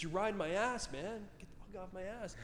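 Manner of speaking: strained, held-back retold yell; mock yelling. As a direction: imitate a road-rager yelling without full volume. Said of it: "he starts yelling at me".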